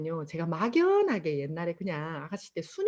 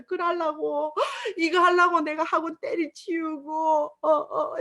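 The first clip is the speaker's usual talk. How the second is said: tearful lament; 7 semitones higher, slower than usual. Retold or imitated. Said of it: "그날도 울었습니다".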